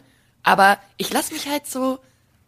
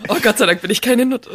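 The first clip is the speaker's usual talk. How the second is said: lachend; 5 dB louder, faster than usual. Real, not acted. Witz in der Runde.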